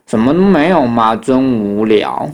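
slow, drawn-out let-down; underwhelmed kid's grumble; bored complaint. Acted. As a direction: drag the last words out in boredom. Bored kids find nothing.

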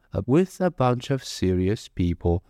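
"serious people" brought down to a full stop; falling sentence ending. Shown as a demonstration. Teacher showing where the sentence finally ends, falling close. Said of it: "一直到句点之后才会把它整个声音往下压".

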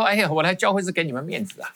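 mock self-important boast; proud, condescending. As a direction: act mildly full of yourself. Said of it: "我非常骄傲".

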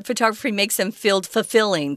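says fulfilling where fulfilled belongs; wrong form on purpose. Shown as a demonstration. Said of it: "That's wrong".

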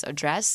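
"address" with the stress on DRESS; weight on the final syllable of "address"; verb stress. Shown as a demonstration. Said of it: "sometimes as a verb".

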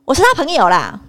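whispered curt phone caller; impatient voice on the phone. Retold or imitated. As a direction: brush off the question in a whisper.

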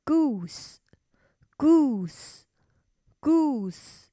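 slow whisper of "goose"; 轻声慢读; whispered word. Shown as a demonstration. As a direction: whisper "goose" slowly, like a secret. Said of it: "鹅的英文是".

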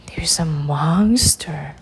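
low, slow, spooky hush; lightly acted dread; hushed mock fear. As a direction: drop low and draw out the scary word. Princess fears monster under bed.

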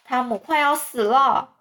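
high, panicked cry for help; panicked shout. Acted. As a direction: yell downstairs in a panic. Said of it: "惊慌地奔下楼， 大叫".

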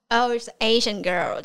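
mock shout. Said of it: "被直接大喊说".

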